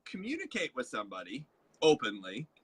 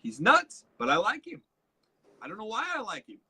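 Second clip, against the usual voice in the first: puzzled listener; 3 semitones higher, 3 dB louder than usual. Retold or imitated. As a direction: play a baffled person charmed despite themselves. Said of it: "they'd be like".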